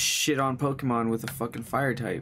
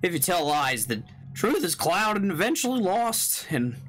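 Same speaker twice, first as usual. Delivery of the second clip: idiot voice; 3 semitones higher than usual. Acted. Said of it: "voice him like a kind of an idiot".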